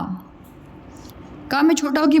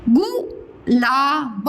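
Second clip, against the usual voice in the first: गुलाब drawn out; very slow; much slower than usual. Shown as a demonstration. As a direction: stretch गुलाब for the class. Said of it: "teacher models word slowly".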